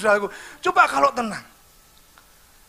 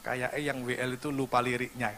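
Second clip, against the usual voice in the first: much softer, lower aside; whisper to wife; 12 semitones lower, 11 dB quieter than usual. Retold or imitated. Preacher whispering to his wife in church, soft aside. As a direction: lean in and murmur it to the wife. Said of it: "saya bisik istri saya".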